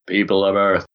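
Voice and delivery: lightly voiced alien announcer; a hint of a sci-fi alien. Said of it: "that's my alien voice".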